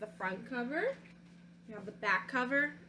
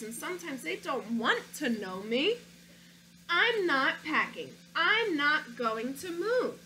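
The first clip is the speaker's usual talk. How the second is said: put-on storybook read-aloud, childlike narrator; reading to children. Teacher reading a picture book to her class, storytelling voice. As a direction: read it like a stubborn little boy.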